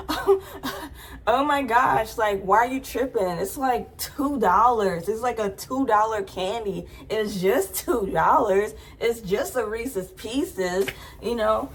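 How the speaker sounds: mock defensive protest; dismissive. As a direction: brush it off lightly as Cameron. Voicing Cameron's defensive reply.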